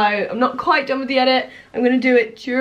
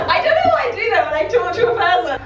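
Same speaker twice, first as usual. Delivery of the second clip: laughing self-mockery; 5 semitones higher than usual. Real, not acted. Laughing at own accent habit.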